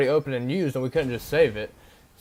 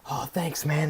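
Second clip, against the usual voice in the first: imitating the paint guy; 2 semitones higher, slower than usual. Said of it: "I swear this is how he talks".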